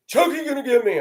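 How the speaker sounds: lightly voiced frightened child, high; a hint of a scared small kid; a boy woken from a nightmare, frightened; scared little boy.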